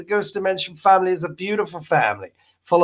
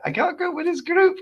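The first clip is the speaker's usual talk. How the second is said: shouting; 11 semitones higher, 3 dB quieter than usual. Acted. Reading a viewer comment aloud.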